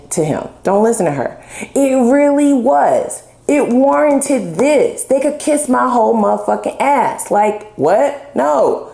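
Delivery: sassy defiant outburst; mock fed-up rant. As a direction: tell the cards off with attitude. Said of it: "I hear for some of you".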